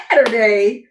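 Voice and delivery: retold "wait, what?" reaction; surprised echo. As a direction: echo it back in mild disbelief. She echoes the day in disbelief.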